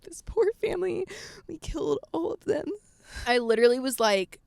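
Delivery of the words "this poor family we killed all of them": mock pity. Mock pity for dead cockroaches.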